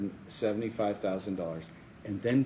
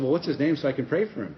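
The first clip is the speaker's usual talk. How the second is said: retold quip; 6 semitones higher, 6 dB louder, faster than usual.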